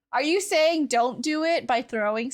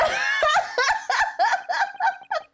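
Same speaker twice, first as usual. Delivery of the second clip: long, high-pitched laughing fit; real high burst of laughter; helpless laughter; 3 dB louder than usual. Real, not acted. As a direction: crack up completely, unable to stop. Cracks up over justified-text argument.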